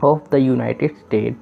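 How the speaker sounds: very slow, word-by-word English reading; slow classroom reading of English; slow reading aloud. Shown as a demonstration. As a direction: read each word out slowly for learners. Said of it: "इसे भी पढ़ लेते हैं".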